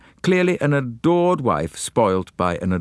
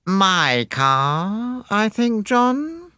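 high, piercing rising voice; shrill wife; 13 semitones higher, much slower than usual. A narrator's reading. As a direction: cut in shrilly over him. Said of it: "voice was shrill and penetrating".

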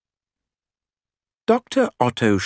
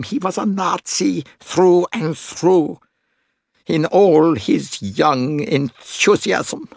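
impassioned father defending his son; 10 semitones higher, 4 dB louder than usual. Acted. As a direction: start measured, swell into fervent insistence.

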